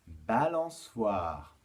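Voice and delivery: drawn out slowly, syllable by syllable; slow articulation. Shown as a demonstration. Teacher gives pupils an example word, slow articulation. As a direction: stretch "balançoire" out slowly for learners.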